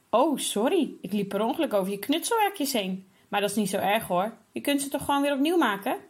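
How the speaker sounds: fake-innocent mimicry, rising and quick; a boy aping his sister's offhand tone to taunt her; mocking sister's tone. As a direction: throw her own careless words back at her. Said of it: "op hetzelfde toontje als Hilde net deed".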